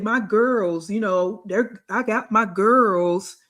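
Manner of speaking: slow, drawn-out mocking of her words; sarcastic slow parroting of a friend's boast; mocking quote. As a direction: drag out her bragging slowly. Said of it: "you said".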